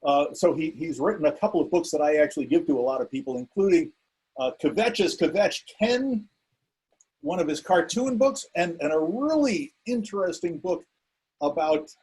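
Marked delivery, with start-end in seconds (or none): 4.6-6.3 "Kvetch is Kvetch" said slowly, stretched toward extra syllables; "Kvetch is Kvetch" spoken slowly and drawn out, as if it had four syllables; drawn-out pronunciation. Real, not acted. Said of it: "I love the way you pronounce".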